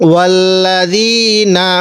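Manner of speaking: ওয়াল্লাযীনা slow, with a soft zal and the long vowel stretched; soft zal recitation. Shown as a demonstration. Teacher demonstrating the soft zal, slow recitation. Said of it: "একটু নরম করে উচ্চারণ করব".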